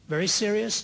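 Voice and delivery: "Very serious?" with serious rising high in disbelief; stunned echo, "serious" lifted high; incredulous question. Retold or imitated. Professor echoes judge in disbelief.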